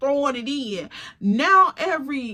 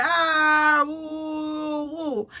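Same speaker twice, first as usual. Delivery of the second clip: whooping; 3 semitones higher, much slower than usual. Retold or imitated. Crowd whooping at the insult.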